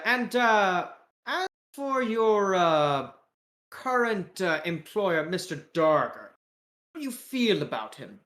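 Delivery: hesitant British interviewer; British accent. Acted. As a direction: probe carefully in a British accent. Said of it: "with a British accent".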